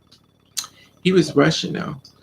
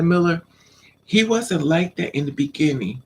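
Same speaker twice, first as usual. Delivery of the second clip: usual speaking voice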